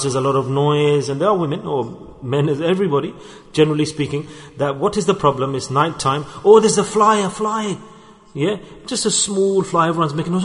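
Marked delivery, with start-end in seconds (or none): 6.4-7.8 high, loud alarmed cry over a fly; mock panic. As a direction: mimic the family's panic at a tiny fly.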